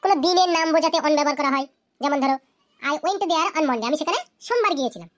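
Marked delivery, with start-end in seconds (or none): 2.8-3.9 very slow, word by word for students to copy; slow dictation. Shown as a demonstration. Teacher reading an example to students, very slow and deliberate. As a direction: spell it out slowly like dictating to a class. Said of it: "teacher dictates example sentence".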